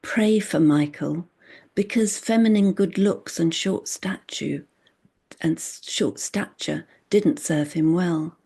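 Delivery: deliberate poetry reading with a repeated refrain; measured recital of a poem; poem recitation. Acted. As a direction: set the refrain apart, then press through each reason.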